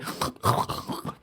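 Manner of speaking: noisy breaths through a congested nose; short, quiet, stuffy breaths; blocked-nose breathing. Shown as a demonstration. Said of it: "you can probably hear this whole time".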